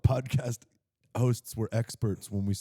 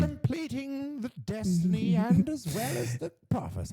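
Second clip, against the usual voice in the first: high put-on fantasy narrator; audiobook narrator; 10 semitones higher, 3 dB quieter than usual. Podcaster mimicking his dragon audiobook, high narrator voice. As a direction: intone the prophecy in a high storybook voice. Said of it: "it's more like".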